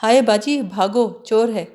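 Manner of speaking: mock scream. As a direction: fake a panic, half-laughing. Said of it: "Saadi چیخنے لگی".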